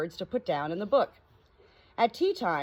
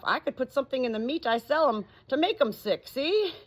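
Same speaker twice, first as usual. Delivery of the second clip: chatty tradesman, rising eager; lightly voiced cat's meat man; 3 semitones higher than usual. Cat's meat man pitching animal doctoring, eager. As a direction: sell the idea with gusto.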